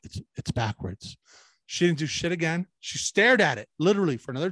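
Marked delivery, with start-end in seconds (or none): 0.0-1.2 lower, softer and slow; quieter. Retold or imitated. Correcting the nurse a second time, quieter and slower. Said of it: "I said it quieter".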